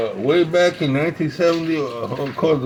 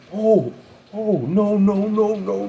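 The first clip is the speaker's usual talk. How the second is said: mock alarm; 4 semitones higher, slower than usual. Retold friend wanting to turn back.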